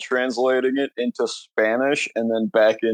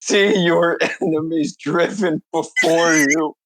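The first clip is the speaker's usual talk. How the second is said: Arnold voice; 4 semitones higher than usual. Retold or imitated. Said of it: "However the fuck Arnold's voice was to sound".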